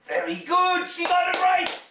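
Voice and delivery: loud, high cheering; excited cheer. Acted. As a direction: celebrate her like a game show host. Cheering child's success.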